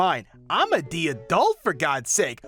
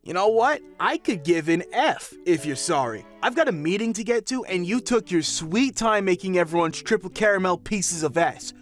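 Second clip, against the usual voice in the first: angry rant; 3 semitones higher than usual. Acted. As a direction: berate her like an impatient businessman. Businessman rants at barista.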